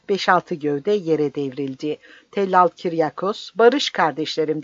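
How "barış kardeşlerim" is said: crying out. Acted. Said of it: "diye bağırmak üzere".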